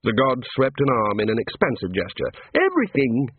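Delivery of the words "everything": cheerful. A narrator's reading. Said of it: "he said cheerfully".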